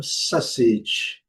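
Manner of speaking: sausage in American English, falling. Shown as a demonstration. Teacher contrasts two varieties for learners, American pronunciation. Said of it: "e no inglês americano".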